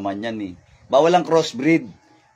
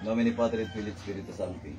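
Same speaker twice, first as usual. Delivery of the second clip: mahinang dasal; 6 semitones lower, 13 dB quieter than usual. Real, not acted.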